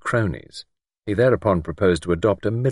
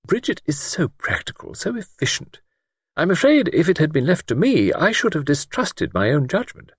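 gentle admiration; 9 semitones higher than usual. A narrator's reading. Miss Wainfleet praising capable Bridget to Luke, gently admiring. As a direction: admire gently, in a high-pitched character voice. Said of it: "a note of gentle admiration in her voice".

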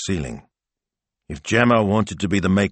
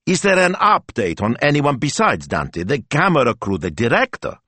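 higher, louder eager question; excited; 8 semitones higher, 4 dB louder than usual. Acted. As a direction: press for news eagerly.

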